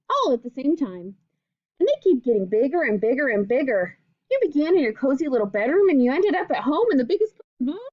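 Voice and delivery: gentle storybook reading voice; reading to children. Acted. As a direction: read it like a picture book to kids. Teacher reads picture book aloud.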